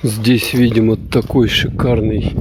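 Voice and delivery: ordinary talk, nothing marked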